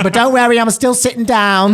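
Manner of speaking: high, loud teasing reassurance; playful reassurance. Retold or imitated. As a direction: tease the crowd as a famous singer. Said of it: "And she's like".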